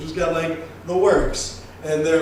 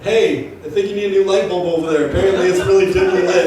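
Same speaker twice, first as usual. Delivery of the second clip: sarcastic quip; 3 dB louder, faster than usual. Retold or imitated. Sarcastic jab at the bartender.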